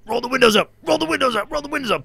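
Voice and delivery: imitating a frantic driver, high and loud; urgent order. Driver orders his passengers to shut the windows, urgent.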